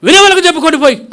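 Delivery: yelling fast in a fury; furious shout. Retold or imitated. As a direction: bark it back at the preacher in rage. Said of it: "ఎంత ఆవేశంగా అంటే".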